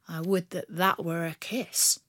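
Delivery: low, soft teasing; a rogue savouring the sting; flirty outlaw. Acted. Bandit flirts after slap.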